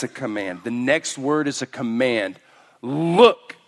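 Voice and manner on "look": louder, higher urging to look; urgent call to look. Retold or imitated. Elders urging John to look, louder. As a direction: call out to make them look. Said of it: "they say".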